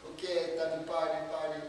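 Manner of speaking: light Russian accent, imitating Natalia; a hint of a Russian accent, party invitation. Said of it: "in her Russian accent".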